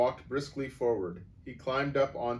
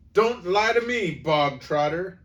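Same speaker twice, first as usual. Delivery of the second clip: much higher, louder bark; 9 semitones higher, 11 dB louder than usual. A narrator's reading. Headmistress silencing the boy, barking. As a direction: snap it at him. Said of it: "barked the Trunchbull".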